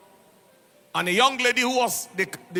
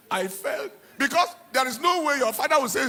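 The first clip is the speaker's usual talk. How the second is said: laughing while talking; 4 semitones higher than usual. Real, not acted. Laughing while telling the story.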